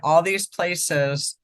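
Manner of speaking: slow, distracted, busy with pipe; distracted while packing pipe. Real, not acted. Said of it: "sorry, I'm trying to pack my pipe".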